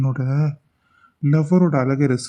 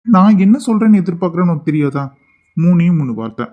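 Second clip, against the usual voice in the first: insistent retort; 3 semitones higher, 6 dB louder than usual. Acted. Boss challenging the employee who keeps refusing him, loud insistent retort.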